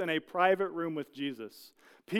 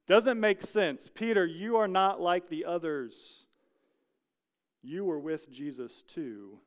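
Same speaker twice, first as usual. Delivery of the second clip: pointed call-out; slower than usual. Retold or imitated. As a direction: stop on Peter and single him out. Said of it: "they're like".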